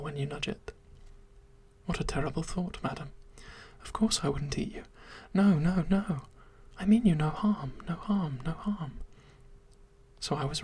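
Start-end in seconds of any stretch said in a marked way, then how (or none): 1.9-9.0 a gentle monster anxiously insisting it means no harm; pleading creature. Acted.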